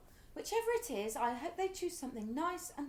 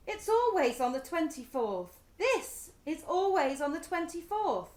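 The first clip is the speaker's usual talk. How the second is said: indignant insistence; 5 dB louder than usual. Acted. Wife insists on the date.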